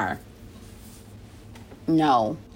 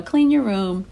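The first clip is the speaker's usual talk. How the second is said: nicely asking, slightly raised pitch; sweet and nice; 3 semitones higher, slower than usual. Acted. Parent asking the kids to clean their room, sweetly. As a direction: ask it sweetly, as to a child. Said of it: "you say it sweetly and nicely".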